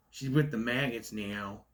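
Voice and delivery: slow, lightly voiced Southern accent; hint of a mock Southern accent. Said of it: "sounds Southern to me".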